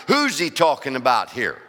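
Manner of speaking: "Who's" stressed, falling at the end. Shown as a demonstration. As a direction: punch the word "Who's". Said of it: "We all know the who here".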